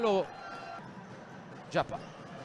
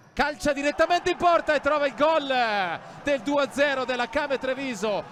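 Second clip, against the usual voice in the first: excited goal call; 5 semitones higher, 4 dB louder than usual. Real, not acted. Second goal called live.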